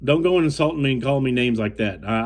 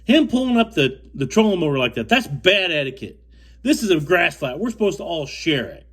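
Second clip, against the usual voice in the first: quoting Bob; 4 semitones higher than usual. Retold or imitated. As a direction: mimic him lecturing with pitched-up indignation. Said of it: "and I quote".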